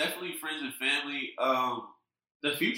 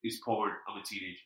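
retold backtalk; 5 semitones lower, 8 dB quieter than usual. Retold teen backtalk to stepdad.

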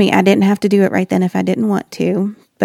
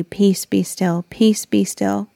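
calming mantra; 3 dB quieter, slower than usual. Retold or imitated. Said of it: "I tried to repeat something to myself".

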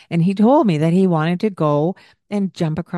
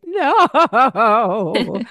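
put-on whiny kid; 5 semitones higher, 5 dB louder than usual. Boy refusing being wet.

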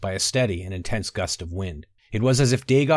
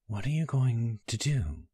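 whispered; 6 dB quieter than usual. A narrator's reading. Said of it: "Akra whispered".

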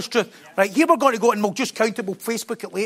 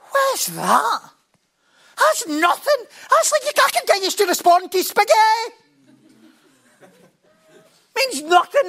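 scornful dismissal; 12 semitones higher than usual. Real, not acted. Preacher dismissing counted responses.

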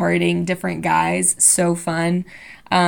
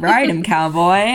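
cowboy voice. Pretend. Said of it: "saying anything country".

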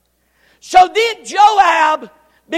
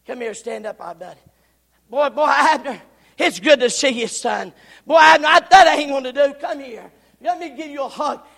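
fake friendly; faster than usual. Joab luring Abner close, hint of false warmth. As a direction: lure him in gently. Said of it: "he done something like this".

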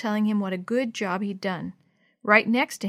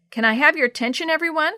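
louder and higher, calling the room; 7 semitones higher, 7 dB louder than usual. A narrator's reading. Missus Shue calls the class to attention, loud and high. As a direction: raise the voice to gather the kids.

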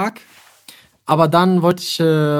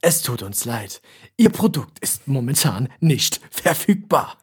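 imitating computer voice; 3 semitones lower, slower than usual. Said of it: "automatische Computerstimme".

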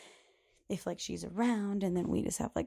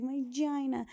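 put-on higher childish voice; little girl; 6 semitones higher, slower than usual. Host imitates a little girl naming her body part, higher. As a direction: mimic the child's word. She's like.

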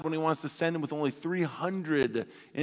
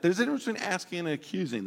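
quicker, more insistent take; faster repeat; 4 semitones higher, faster than usual. Shown as a demonstration. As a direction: rattle it off as a pointed reminder. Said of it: "watch that".

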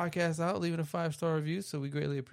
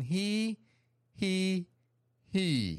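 mock evil laugh; much slower than usual. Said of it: "is that an evil laugh?".

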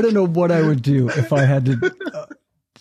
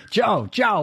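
lightly voiced teacher, a touch higher; imitating Freddie; 9 semitones higher than usual. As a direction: call his name like an amused old teacher. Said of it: "And Freddie's going".

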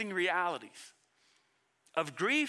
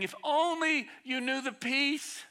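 imitated weeping plea; 7 semitones higher, 5 dB louder than usual. Jesus longing to offer peace to his people, imitated weeping plea. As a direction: plead in a raised voice, as if weeping. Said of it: "He's weeping like".

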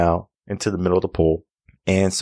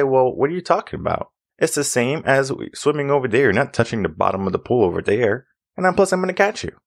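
high-pitched, animated coaxing; retold incredulous reassurance; 6 semitones higher than usual. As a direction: talk a nervous kid into it, pitched up. Retold reassurance to scared swimmers.

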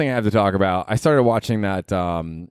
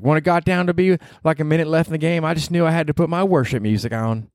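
Southern wife; 7 semitones higher than usual. Retold or imitated. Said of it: "And she was like".

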